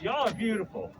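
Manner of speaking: high, loud delight at the crowd; excited marvel. Real, not acted. Doctor admires the crowd of nurses, excitedly. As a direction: gush over the sea of people.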